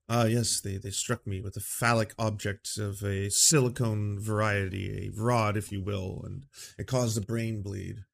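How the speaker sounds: posh British sufferer, hammed-up; lightly done fake British accent. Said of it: "I have to have a fake British accent".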